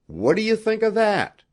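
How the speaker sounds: very high-pitched exclamation; excited cry. A narrator's reading. Young Indian showing off his find to Rod, excited cry. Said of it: "cried the young Indian".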